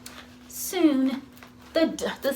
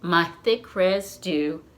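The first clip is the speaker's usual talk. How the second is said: lower, sad and sighing; sighing sadly; 5 semitones lower than usual. Acted. Amu sighing to her neighbors at the door, sad and low. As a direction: let the words sink with disappointment. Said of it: "Amu sighed".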